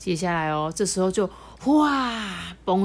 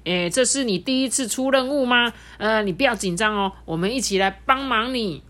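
encouraging; 4 semitones higher than usual. Acted. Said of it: "抢修列车也鼓励捧七捧七说".

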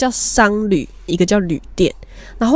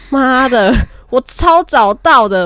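mock indignant thought; 5 semitones higher, 4 dB louder, slower than usual. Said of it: "我心想说".

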